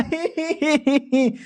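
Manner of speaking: high, shy little laugh; bashful giggle. Acted. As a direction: giggle like a smitten boy. Hero giggling over the confession.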